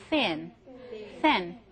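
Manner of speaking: thin held long for teaching; drawn-out demo. Shown as a demonstration. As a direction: stretch the vowel in thin. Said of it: "발음을 설명을 하느라고 길게 했는데". (설명하듯 길게 끈 thin)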